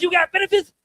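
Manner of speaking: high, excited redneck voice; redneck Mike Tyson. Acted. Dad hearing about his son's benefits, excited high-pitched redneck. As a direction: squeak it out like an amazed hillbilly boxer. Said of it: "sounds like a redneck Mike Tyson when he gets all excited".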